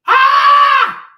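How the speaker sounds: very high, very loud shriek; piercing cry of frustration; frustrated scream. Real, not acted. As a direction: let out a full scream of exasperation. Screams in frustration mid-rant.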